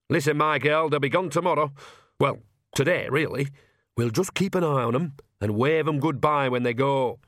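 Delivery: lightly voiced old village woman taking charge; animated, pitched a little up, bossy but easy; chatty old granny with a plan; Nanny Ogg, brisk old witch.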